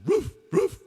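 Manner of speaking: very high woof-like yelps; imitated dog bark. Dog answers what's on that building, very high mock bark. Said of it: "The dog says".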